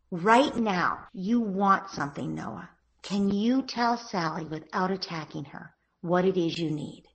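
gentle parent voice. Shown as a demonstration. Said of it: "So you say".

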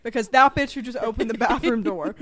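loud furious rant about the dog; angry rant. Real, not acted. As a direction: rant loudly with real anger.

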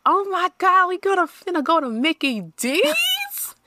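put-on high, thrilled childish squeal; excited kid. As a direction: act an overjoyed eight-year-old. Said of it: "you be like".

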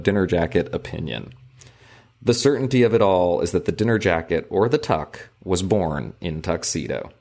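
measured, formal book narration; reading aloud. A narrator's reading. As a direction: read the passage out with careful phrasing. Reads book passage aloud.

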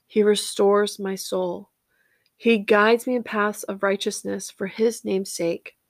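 slow reverent reading; scripture reading. Acted. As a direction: read the psalm slowly, like a prayer. Reads Psalm 23 aloud.

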